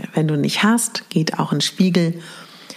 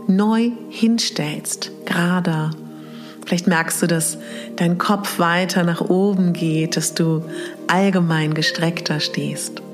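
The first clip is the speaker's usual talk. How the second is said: sleep story narrator. Acted. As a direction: breathe it out gently, long pauses. Leads mirror meditation exercise.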